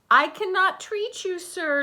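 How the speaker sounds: high, loud shout from the window. A narrator's reading. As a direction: call down firmly and loudly. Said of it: "Doctor DeSoto shouted".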